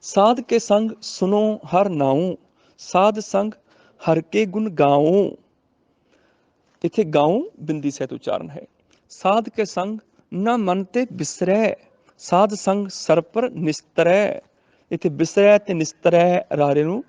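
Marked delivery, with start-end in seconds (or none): 0.0-5.3 slow, drawn-out sacred verse reading; measured teaching recitation; scripture recitation for teaching. Shown as a demonstration. 9.1-14.4 slow, drawn-out sacred verse reading; measured teaching recitation; scripture recitation for teaching. Shown as a demonstration.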